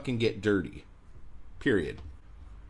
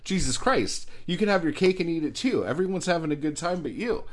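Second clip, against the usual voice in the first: heated rant; 5 semitones higher, 3 dB louder than usual. Real, not acted. Ranting back at the writer.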